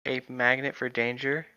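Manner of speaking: story reading. Acted. Reads novel aloud.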